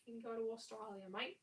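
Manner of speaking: hammed-up mock Australian accent; playful fake Aussie, lifting each "mate"; bad Australian accent. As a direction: tease in a badly faked Australian accent. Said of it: "do a really bad accent".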